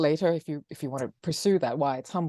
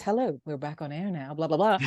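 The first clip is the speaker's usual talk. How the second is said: mock radio host. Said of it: "multitasking like this".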